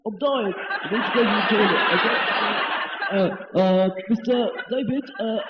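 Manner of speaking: hammed-up desperation to run off; urgent toilet plea.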